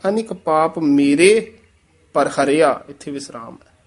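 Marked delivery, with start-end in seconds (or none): 0.1-1.5 ਮੇਰੇ stressed, then a short stop; ਮੇਰੇ marked with a small pause; pause after ਮੇਰੇ. Shown as a demonstration. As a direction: hold on ਮੇਰੇ before going on. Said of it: "ਮੇਰੇ ਪਦ ਤੇ ਠਮਕ ਲਾਣੀ ਹੈ".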